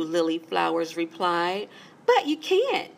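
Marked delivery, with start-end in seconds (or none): 2.1-2.9 flower voice. A narrator's reading.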